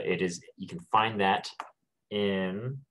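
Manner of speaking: fighting off a sneeze; holding back a sneeze. Real, not acted. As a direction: talk while stifling a sneeze. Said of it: "sorry, I'm trying not to sneeze".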